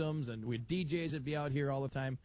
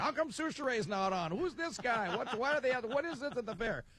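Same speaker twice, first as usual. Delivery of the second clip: puzzled callers; 7 semitones higher than usual. Retold or imitated. Retold confused callers.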